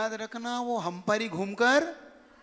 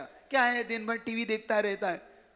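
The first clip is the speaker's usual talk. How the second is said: mock angry mother. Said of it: "बिल्कुल गुस्से में".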